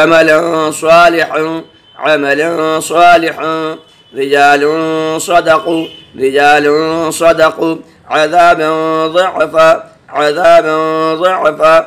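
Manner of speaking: slow, drawn-out tajweed recitation of each example; Quranic recitation. Acted. Teacher reciting examples to students, slow and measured. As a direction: intone every word with care.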